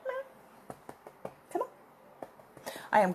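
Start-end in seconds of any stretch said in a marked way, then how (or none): 0.1-1.3 meow. Real, not acted. Meowing at the cat.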